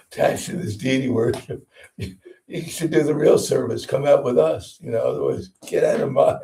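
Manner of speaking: hammed-up rebuke on the edge of laughter; mock scolding. Book distributor to temple devotee, mock scolding. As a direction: play the pushy recruiter for laughs.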